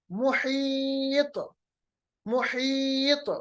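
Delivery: मुहीत drawn long, final t bounced; qalqalah. Shown as a demonstration. Teacher stops on the last letter, slow मुहीत with bouncing t. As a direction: hold the ee of मुहीत, then echo the t. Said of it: "तो को साकिन बनाएंगे".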